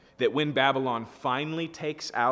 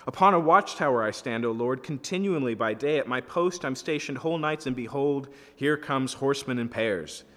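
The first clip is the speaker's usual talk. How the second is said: raised, louder watchman's call; proclaiming from the watchtower; crying out; 3 semitones higher, 5 dB louder than usual. Acted. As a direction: read it out like a lookout reporting. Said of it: "Then he who saw cried out".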